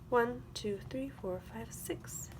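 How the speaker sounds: fading count. Acted.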